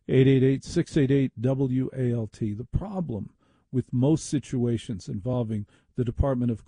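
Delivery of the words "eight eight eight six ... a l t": ad read. Acted. Phone number repeated.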